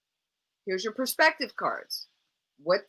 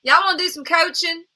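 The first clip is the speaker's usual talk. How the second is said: channel a broad Alabama schoolmate; Alabama accent; 9 semitones higher, 9 dB louder than usual. Pretend. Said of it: "Not everybody in Alabama talks like this".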